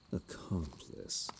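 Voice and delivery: slow whispered address. Acted. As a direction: draw the word out in a hush. Villain addresses companion softly.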